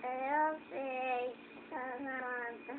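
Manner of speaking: talking behind a hand; muffled through the hand; hand over mouth. Real, not acted. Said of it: "Tira a mão da boca".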